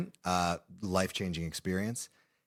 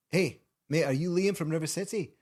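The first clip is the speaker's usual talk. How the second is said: put-on kid voice; 8 semitones higher than usual. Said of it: "And he goes".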